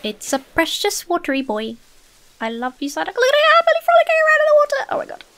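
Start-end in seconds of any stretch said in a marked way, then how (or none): 3.1-5.2 fast, high breathless whisper; excited whisper. Real, not acted. Watching Psyduck play in water, a fast excited whisper. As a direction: hush so the Psyduck can't hear you.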